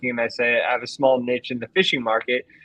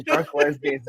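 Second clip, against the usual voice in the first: high-pitched mock yell; imitated yelling old man; 13 semitones higher than usual. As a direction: act out his exasperated cry. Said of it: "when he just kept yelling".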